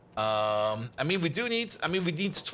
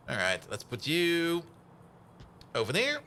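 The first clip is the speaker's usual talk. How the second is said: put-on a touch of French accent on over there; over there said the French way, like ovair; slight French accent slipping in. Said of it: "Sorry, French there".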